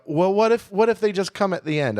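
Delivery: lifted, sing-song stewardess voice; high mock stewardess. Stewardess proposing the crying lady board late, lightly voiced high. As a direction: pitch it up like a hopeful flight attendant. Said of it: "and they go".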